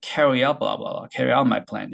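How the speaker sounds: 덩어리로 붙여 흘리듯; one breath. Shown as a demonstration. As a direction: carry out my plan 한 호흡으로. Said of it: "한 단어처럼 처리가 됐을 때". (한 단어처럼 한 호흡에)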